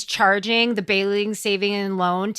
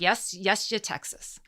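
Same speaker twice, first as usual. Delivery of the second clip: softer "Yes, yes, you Texas"; soft humoring; 4 semitones lower, 9 dB quieter, slower than usual. Retold or imitated. Answering Texans, softly humoring them. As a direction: pat them on the head gently. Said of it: "you're like".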